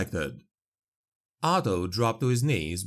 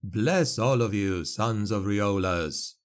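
plain reading voice

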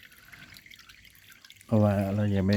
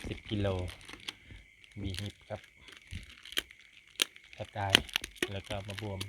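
hushed night talk; 11 dB quieter than usual. Real, not acted. Kids asleep in tent at night.

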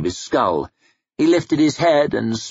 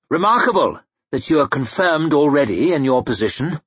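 snapped; 5 semitones higher than usual. Acted. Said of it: "he snapped".

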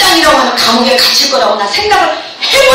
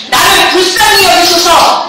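a slow, pleading shout, pitched higher; loud cry for mercy; 5 semitones higher, slower than usual. Shown as a demonstration. Pastor leading the youth in a loud cry of prayer. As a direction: cry it out loud so the whole room follows. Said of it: "한번 크게 한번 소리 좀 내보자".

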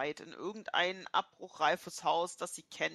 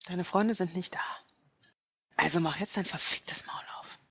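threatening whisper; 2 semitones higher than usual. Acted. Kidnapper whispers an order to the captive, menacing.

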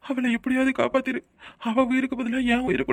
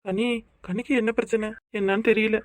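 softer, crying through the words; choking back tears; tearful; 4 dB quieter than usual. Acted. Husband telling family his wife is ill, crying softly.

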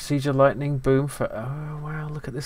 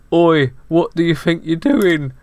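slow, higher mock-London hat voice; lightly voiced cockney hat; cheeky talking hat; 5 semitones higher, 6 dB louder than usual. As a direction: play the bossy hat catching you. Voicing talking hat character.

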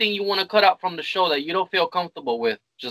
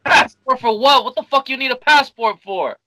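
loud disbelief; 4 semitones higher, 5 dB louder than usual. Real, not acted. Disbelief at the passport story.

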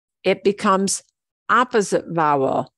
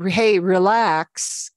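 slow, soothing Hey, relax; calm a friend down, slowly; mock soothing; slower than usual. Teacher imitates someone calming a friend, slow and soothing. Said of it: "Somebody is telling you".

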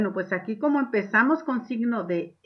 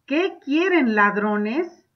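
questioning; 2 semitones higher, 4 dB louder, much slower than usual. Shown as a demonstration. Teacher reads a character challenging the robbers. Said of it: "una pregunta".

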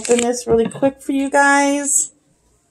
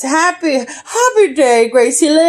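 imitating Dante; 3 semitones higher than usual. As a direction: read it the way the friend says it. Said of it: "That's how he says it".

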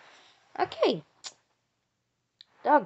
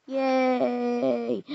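a bright, higher cry of joy; happy cheer; 4 semitones higher than usual. Real, not acted. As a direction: cheer like you just got a puppy. Kid cheers at the dog.

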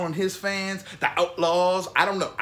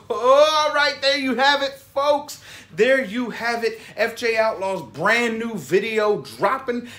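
higher and louder hyped outro; excited; 5 semitones higher, 6 dB louder, slower than usual. Real, not acted. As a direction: pump up the wrap-up. Hyped wrap-up after laughing.

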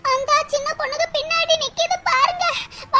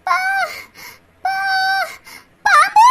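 alarmed cry; 2 semitones higher than usual. Acted. Spotting a snake, alarmed.

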